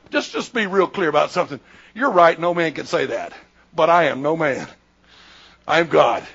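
low, measured assertion; calm authority. Retold or imitated. Jesus makes his identity clear to the scribes, calmly firm.

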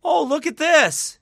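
high, slow hammed-up holler; loud proclaiming. Showing viewers Bible proof, hammed-up proclaiming. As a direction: call it out slowly, very loud.

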